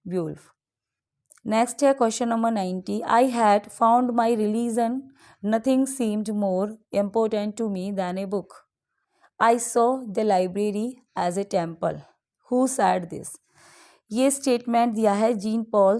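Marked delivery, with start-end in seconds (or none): 3.0-13.3 slow, deliberate reading of the poem lines; slow quiz reading. Acted. Teacher reads a quiz question to students, slow and deliberate. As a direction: read the question out slowly for dictation.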